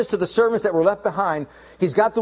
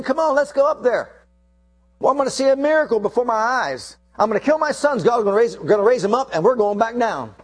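higher, eager voice of a father sure of a miracle; eager Abraham; 4 semitones higher than usual. Acted. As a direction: lift it up, almost cheerful in his faith. Abraham voiced eager, not grieving.

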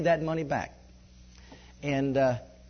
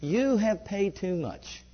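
slow reveal; slower than usual. Retold or imitated. Reading the surprising IRS letter.

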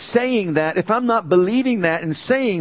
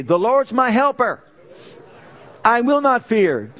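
bold proclamation; 5 semitones higher, 3 dB louder than usual. Shown as a demonstration. Preacher leading the congregation in declaring the verse, loud and bold. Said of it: "Say it with me".

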